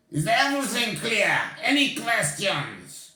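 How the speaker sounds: stern witch boss voice; commanding old witch. Acted. Grand High Witch addressing witches.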